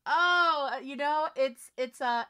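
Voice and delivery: loud, high burst; excited. Real, not acted. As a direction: jump in with excitement. Excited start to answer.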